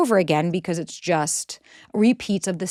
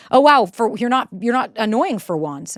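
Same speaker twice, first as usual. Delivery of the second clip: stinging sarcasm; 2 semitones higher than usual. Acted. Partner making a barbed joke, sarcastic. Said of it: "Jokes with a sting".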